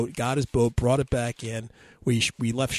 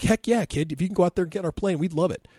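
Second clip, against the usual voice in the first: eager; 6 semitones higher than usual. Retold or imitated. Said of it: "And we're like".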